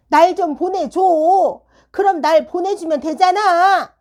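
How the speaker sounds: put-on high, loud, drawn-out pleading of a child; mock childish whining. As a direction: whine to be let go, stretching the endings. 떼쓰는 학생의 말을 재연. (떼쓰며 징징대는 아이 흉내)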